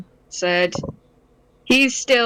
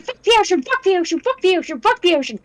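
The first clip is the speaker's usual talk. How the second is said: high-pitched frantic chant; screaming; 10 semitones higher, faster than usual. Acted. Player voices his flailing, drowning character, mock screaming. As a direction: scream it over and over, mock-panicked. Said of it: "he's just screaming".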